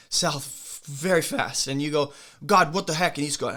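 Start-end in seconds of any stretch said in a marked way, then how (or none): 2.5-3.2 louder, higher protest to God; acted exasperated outburst; mock indignant complaint. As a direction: complain upward in playful outrage.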